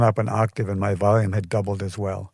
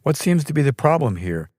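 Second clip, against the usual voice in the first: firm, measured; 5 semitones higher than usual. A narrator's reading. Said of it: "he asked firmly, but in a measured tone".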